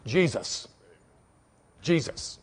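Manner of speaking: hushed. Real, not acted. Preacher naming Jesus, hushed and reverent. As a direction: drop to a reverent hush. Hushed answer after climax.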